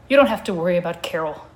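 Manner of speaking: muffled voice. Acted. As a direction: speak muffled, as through fur. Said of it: "said in sort of a muffled way".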